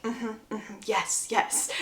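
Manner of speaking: very soft, murmured agreement; hushed eager yes. Retold or imitated. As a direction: murmur yes between kisses, acted lightly. Acting a reply mid-kiss.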